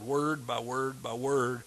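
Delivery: slow, even beats on every "word"; stress on each WORD. Shown as a demonstration. Preacher teaching meditation on a verse, each "word" weighted. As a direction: set each "word" apart, low and deliberate. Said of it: "you just emphasize each word".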